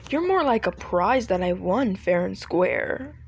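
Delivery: assured, mildly boastful delivery; a touch of smug confidence; confident. Acted. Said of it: "he says so confidently".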